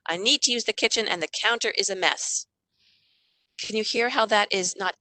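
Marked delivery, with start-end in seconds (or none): 0.1-2.5 name the feeling calmly; I statement. Shown as a demonstration. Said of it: "Talk about your feelings instead".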